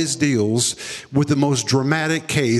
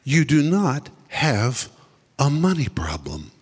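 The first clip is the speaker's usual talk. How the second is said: voice of the Lord. Retold or imitated. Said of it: "the Lord spoke to me and said".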